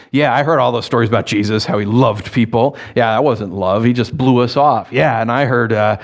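mild bitter complaining; a touch of sulky grumbling. Retold or imitated. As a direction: gripe it under your breath. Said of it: "going along grumbling".

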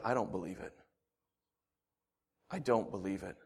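low, soft disbelief; stunned denial. Acted. Thomas pushing James off, low soft disbelief. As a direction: say it low, numb and refusing.

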